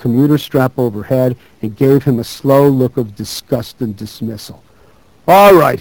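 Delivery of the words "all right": louder, higher holler; narrated drunken holler, pitched up. A narrator's reading. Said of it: "he hollered".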